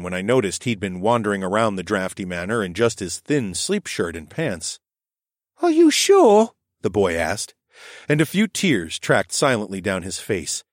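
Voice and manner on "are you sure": put-on high, dreamy child voice, fretful; a dazed little boy worried he'll be scolded; high, dazed child voice with rising worry; sleepwalking boy. A narrator's reading.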